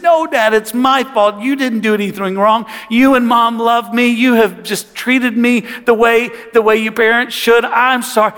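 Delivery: imitated apologetic kid; contrite son. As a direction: take the blame, pleading with your dad. Son takes blame from father.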